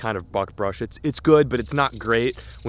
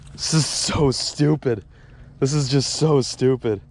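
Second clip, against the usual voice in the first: excited disbelief; 3 semitones higher, 3 dB louder, slower than usual. Real, not acted. Another fish, disbelieving joy.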